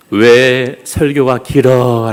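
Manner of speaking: slow, drawn-out grumble; mock complaint. Churchgoer on a long sermon, mock complaining. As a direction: stretch out the teasing grievance. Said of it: "라고 말합니다".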